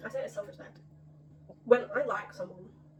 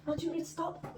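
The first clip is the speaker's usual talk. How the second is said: lightly hammed-up proper English, higher voice; mock English accent; 6 semitones higher, 4 dB quieter than usual. Mimicking the film's first line, mock English accent. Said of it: "it's, like, proper English".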